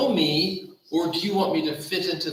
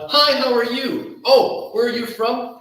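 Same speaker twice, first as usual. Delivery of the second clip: bright mock greeting; 6 semitones higher, 5 dB louder than usual. Mocking small talk with stranger.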